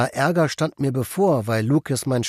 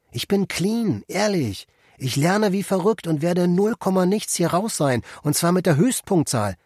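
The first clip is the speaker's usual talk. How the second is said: eager pleading; 6 semitones higher than usual. Acted. Eager prisoner pleads on phone.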